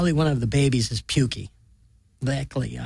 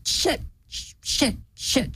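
high breathless panicked cries; panicked shriek; 12 semitones higher, much slower than usual. A narrator's reading. Jade panicking over the body, shrieking. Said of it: "shrieks Jade".

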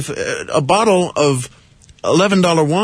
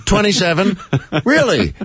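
laughing disbelief; 4 semitones higher than usual. Real, not acted.

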